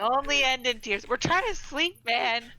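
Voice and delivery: loud and high, mock-annoyed; loud complaint. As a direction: complain loudly as a sleeper woken. Complaining loudly in character.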